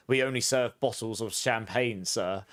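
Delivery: lightly imitated posh waiter; a hint of posh server. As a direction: politely mimic a posh waiter. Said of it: "They were so posh".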